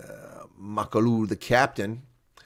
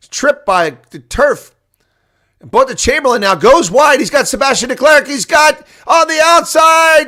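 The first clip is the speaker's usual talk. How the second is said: near-shouting, much higher and louder, racing with the play; all excited; 10 semitones higher, 10 dB louder than usual. Real, not acted. Commentator calling a near-try for the Bulls, excited yelling. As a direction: erupt as the attack breaks down the sideline. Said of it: "we got all excited".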